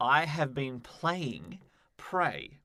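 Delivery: very slow, careful, drawn out word by word. Sharing which game they played this week, say it very slowly. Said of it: "I said that very slowly".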